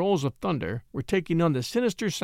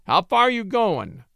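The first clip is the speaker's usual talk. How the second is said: stranger calling out; 5 semitones higher, 4 dB louder than usual. A narrator's reading. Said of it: "came the strange voice from the night".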